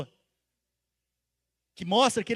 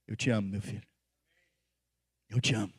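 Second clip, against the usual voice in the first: tender, loving; 11 semitones lower, 6 dB quieter, faster than usual. Acted. Preacher voices God telling each listener he loves them, lower, softer and tender. Voicing God's love to listener.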